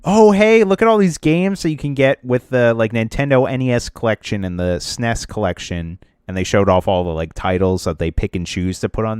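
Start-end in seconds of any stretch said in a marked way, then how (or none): 0.0-6.0 high, bright hyped-up imitation; mock excited announcement. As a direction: sell it like a cheesy ad. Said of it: "posted this big thing that was like".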